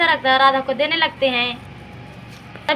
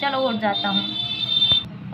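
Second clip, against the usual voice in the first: sleepy yawn; much slower than usual. Acted. Father still half asleep getting out of bed, slow yawning. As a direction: stretch the words out like a yawn.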